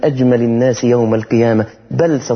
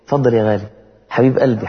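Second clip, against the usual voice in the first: gentle wife; 3 semitones lower than usual. Pretend. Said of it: "ترق في قولها".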